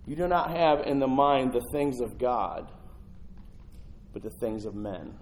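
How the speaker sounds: slow, with "not" stressed; emphatic scripture. Shown as a demonstration. Preacher stressing Jesus' words to Peter, slow with "not" stressed. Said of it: "you need to underline this".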